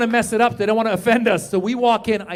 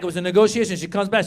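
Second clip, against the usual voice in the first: ordinary talk, nothing marked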